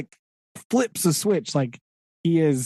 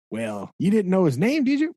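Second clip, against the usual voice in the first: mock interrogating pirate; 2 semitones higher than usual. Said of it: "He's like".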